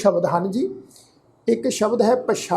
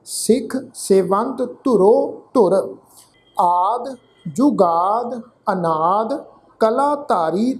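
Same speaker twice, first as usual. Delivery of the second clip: measured Gurbani reading, phrase by phrase; deliberate teaching recitation of sacred verse; scripture recitation; slower than usual. Shown as a demonstration. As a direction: recite with drawn-out vowels and pauses between phrases.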